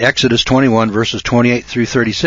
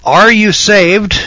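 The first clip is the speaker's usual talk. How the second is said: high, slow, drawn-out churchy question; mock preacher question; 10 semitones higher, 5 dB louder, much slower than usual. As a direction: stretch "Are you saved?" high and slow like a preacher. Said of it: "They ask".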